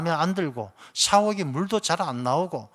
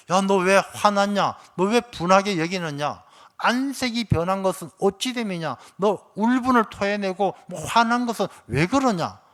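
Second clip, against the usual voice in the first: stern rebuke; 3 semitones higher than usual. Acted. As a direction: demand an answer, firm and rising. God rebukes angry Cain.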